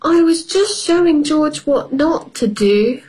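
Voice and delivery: put-on high child excuse; little girl voice. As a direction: explain innocently like a little girl. Peppa voiced in story.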